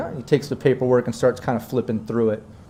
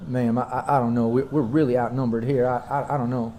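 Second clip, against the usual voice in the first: nervous; 2 semitones lower, 5 dB quieter than usual. Acted. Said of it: "He seems nervous".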